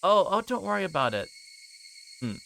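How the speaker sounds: ordinary talk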